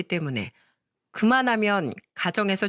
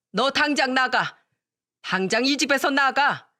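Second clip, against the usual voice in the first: mother-in-law scolding, higher and rising in anger; furious older woman ordering her out; angry mother-in-law; 3 semitones higher than usual. Acted. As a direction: tear into her daughter-in-law, building to throwing her out. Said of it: "동서에게 마구마구 화를 내시더라고요".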